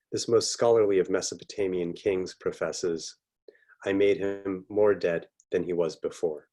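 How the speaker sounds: measured reading aloud from a book; literary reading. Acted. Author reading the opening pages to an online audience, literary reading. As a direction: read it out with deliberate pauses between sentences.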